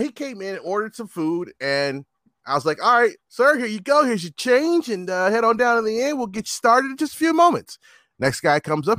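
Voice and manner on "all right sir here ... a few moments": customer-service voice. Retold or imitated. Voicing himself serving a customer.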